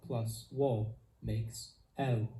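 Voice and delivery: A plus yo makes I, drawn out slowly with I gliding; teacher modelling slowly for learners, clear and drawn out; slow diphthong demo. Shown as a demonstration. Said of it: "Diphthongs are an important part of Esperanto pronunciation".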